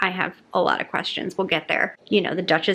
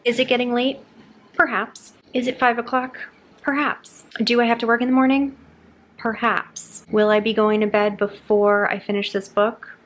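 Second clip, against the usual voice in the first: coy rhetorical; 3 semitones higher than usual. Real, not acted. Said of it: "rhetorical perhaps routine".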